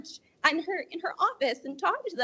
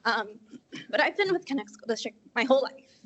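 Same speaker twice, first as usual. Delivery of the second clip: emotional; 3 semitones lower than usual. Real, not acted. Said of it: "Sorry, I'm a bit emotional".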